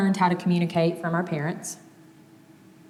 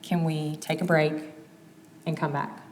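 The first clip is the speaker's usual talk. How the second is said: calm pause request. Shown as a demonstration. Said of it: "don't be scared to say".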